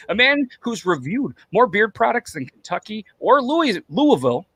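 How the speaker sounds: grand introduction with deliberate emphasis; announcer intro. Pretend. Host listing the guest's feats, announcer intro.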